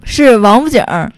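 王府井儿 with a rolled erhua on 井儿; Beijing accent. Shown as a demonstration. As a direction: curl the tongue on 井儿, Beijing style.

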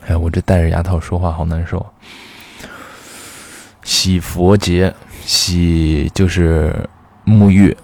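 retainer in the mouth; wearing a retainer. Real, not acted. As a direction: talk through an awkward retainer.

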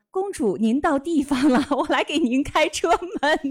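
high sugary princess-pampering voice; cutesy clip voice. Retold or imitated. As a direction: coo it like a doting chauffeur. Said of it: "就用起了夹子音说".

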